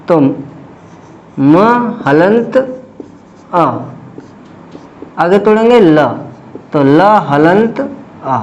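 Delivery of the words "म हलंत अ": drawn-out, slow dictation of each part; slow spelling out. Shown as a demonstration. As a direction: stretch each sound for students to copy. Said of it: "म को तोड़ेंगे". (बहुत धीरे, खींचकर बोलना)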